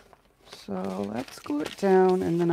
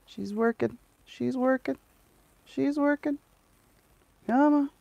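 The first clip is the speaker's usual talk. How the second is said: building higher with each repeat; rising excitement; 7 semitones higher than usual. Real, not acted. Urging the paper as it tears cleanly, excitement building. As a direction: climb up in hope each time. Coaxing paper to tear right.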